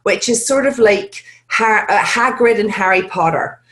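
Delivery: rich rural West Country English accent; light Hagrid-like West Country burr. Shown as a demonstration. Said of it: "go to West Country".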